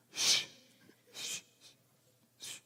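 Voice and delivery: whispered hush; shushing. Retold or imitated. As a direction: hush her under your breath. Hushing loud date in restaurant.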